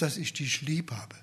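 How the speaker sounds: whispered, voiceless and soft. Acted. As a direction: breathe Peter's answer as a humble whisper. Peter's humble answer to Jesus.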